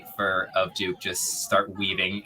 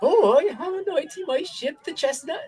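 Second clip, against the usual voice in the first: high squeaky vole voice, sinking to sorrow; a sad old vole who gave up sailing; mournful vole; 6 dB louder than usual. Acted. Vole voice, ship talk.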